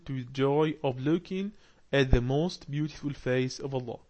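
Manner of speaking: slow, careful reading aloud to a class; slow text reading. Acted. Teacher reads the lesson text aloud slowly. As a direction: read each phrase slowly for learners.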